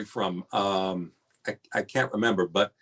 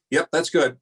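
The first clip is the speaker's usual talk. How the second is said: mock producer approval; 8 semitones higher, 6 dB louder than usual.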